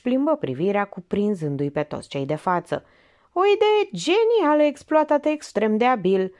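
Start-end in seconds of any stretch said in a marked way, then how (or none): 3.3-6.3 hint of a commanding detective. Detective lays out the case.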